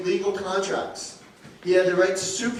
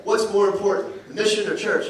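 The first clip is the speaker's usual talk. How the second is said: a touch louder, higher, mock angry; angry sergeant; 4 semitones higher, 4 dB louder than usual. Drill sergeant challenging the recruit, mild mock anger. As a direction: imitate a drill sergeant losing his temper, lightly. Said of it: "he's getting very angry".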